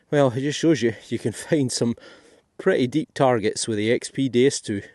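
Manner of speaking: breathless after digging; out of breath. Real, not acted. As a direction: talk while out of breath. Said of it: "I'm still out of breath from that last hole".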